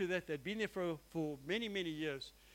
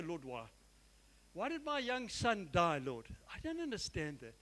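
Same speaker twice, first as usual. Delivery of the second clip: a father's quiet broken question; subdued mournful prayer to God; grieving plea; 3 semitones lower, 3 dB quieter than usual. Retold or imitated. Pastor voicing grief over son.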